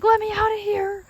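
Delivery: high squeaky fish voice; voicing the fish. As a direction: plead like a trapped fish. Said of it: "He's like".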